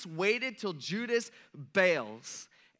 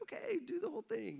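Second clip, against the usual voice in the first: mock reluctant assent; 10 semitones higher, 7 dB quieter than usual. Peter gives in to Jesus, mock reluctant assent. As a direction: give in as Peter, lightly mocking.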